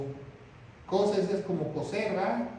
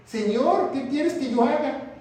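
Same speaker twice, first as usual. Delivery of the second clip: trembling plea; 4 semitones higher, 4 dB louder than usual. Acted. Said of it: "temblando, temeroso".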